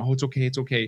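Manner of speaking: high-pitched soothing pet talk; imitated comforting. Owner pets and reassures a barking dog, comforting. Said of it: "comforting the dog is also bad".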